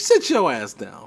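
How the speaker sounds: slow, a hint of Middle Eastern accent. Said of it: "I do the accent".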